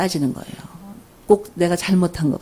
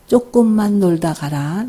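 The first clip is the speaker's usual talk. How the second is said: gentle release; slower than usual. Shown as a demonstration. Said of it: "자, 이렇게 얘기하면 됩니다".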